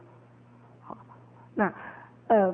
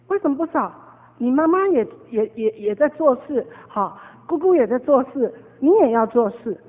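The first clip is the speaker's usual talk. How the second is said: put-on firm, raised voice scolding a child; mild retold scolding; 3 dB louder than usual. Preacher scolding his nephew for refusing to sweep, raised voice. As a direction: insist the boy must help out.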